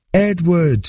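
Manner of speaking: high-pitched call, long falling name; narrated yell. A narrator's reading. Boy searching rubble for his brother, high calling yell. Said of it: "his youthful voice yelled out at the top of his lungs".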